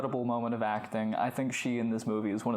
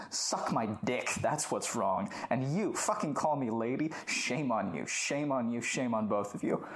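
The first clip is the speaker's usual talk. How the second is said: retold indignant rant, restrained volume; losing it. Woman with a sick husband berating both pharmacists, losing it in retelling. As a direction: act out a wounded tirade, mildly heated. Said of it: "She loses it and says".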